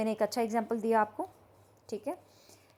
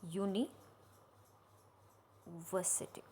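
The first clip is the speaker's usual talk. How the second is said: slow sounding out; 4 semitones lower, 12 dB quieter, much slower than usual. Shown as a demonstration. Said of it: "teacher sounds out example word".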